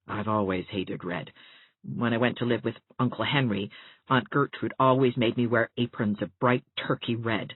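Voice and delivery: a hint of a grumpy teacher; Catherine, scornful. Catherine voiced by reader.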